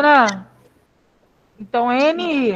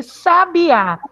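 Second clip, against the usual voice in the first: "sabiá" higher, with weight on the final á; stress on final Á; 4 semitones higher, 3 dB louder than usual. Shown as a demonstration. Teacher shows class the tonic syllable, final á of "sabiá" stressed. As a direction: lean on the last syllable of "sabiá". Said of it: "a sílaba tônica é o A".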